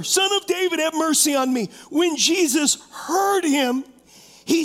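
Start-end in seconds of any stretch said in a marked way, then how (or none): 0.0-1.7 raised-pitch plea, easing at the end; acted cry from the crowd; mild louder shouting. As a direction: call out again for mercy, lightly acted. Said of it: "but he only shouted louder".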